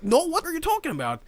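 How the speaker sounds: high, baffled protest; acted-out disbelieving denial; indignant denial. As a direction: protest like a wrongly accused kid. Acted denial to accusing mother.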